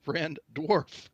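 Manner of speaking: halting call to a dwarf in his own tongue; half-hearted shout, word by word; mock shout in Dwarven. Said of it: "I shout in Dwarven".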